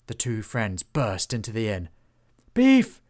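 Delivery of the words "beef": high, loud call across the inn. A narrator's reading. Friends burst into the inn and call loudly for Beef. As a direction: shout for Beef over the chaos. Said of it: "they called".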